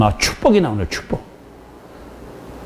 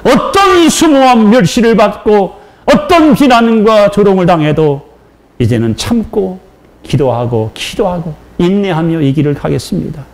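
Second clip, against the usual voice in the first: tearful vow; 5 semitones higher than usual. Retold or imitated. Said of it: "울면서".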